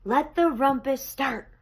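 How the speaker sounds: high, loud, joyful call; excited cry. A narrator's reading. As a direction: shout to start the party. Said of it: "Max cried".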